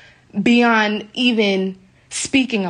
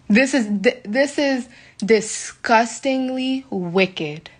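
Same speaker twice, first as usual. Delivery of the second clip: slow, drawn-out real disgust; 2 semitones higher, much slower than usual. Real, not acted. Stranded traveller telling her viewers, slow, drawn-out disgust. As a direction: drag each word out in real disgust.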